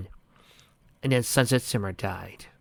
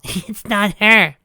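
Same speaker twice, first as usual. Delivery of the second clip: eerie slow; 10 semitones higher, 8 dB louder, much slower than usual. Acted. Pinky eerie.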